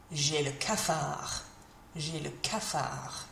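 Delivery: low, slow and a bit glum; mildly down. Acted. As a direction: sound fed up and blue. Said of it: "feeling a bit fed up".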